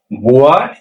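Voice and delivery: slow, drawn-out "What ইনি ডুলু", each word spaced; slow teaching demo. Shown as a demonstration. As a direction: spell it out slowly for the class. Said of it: "মানে এইটা আগে করো".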